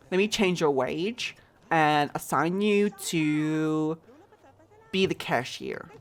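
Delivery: a put-on American accent while running the store; chatty fake American accent, lightly done. Streamer managing her game store for chat, in an American accent. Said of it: "I'm done with the American accent".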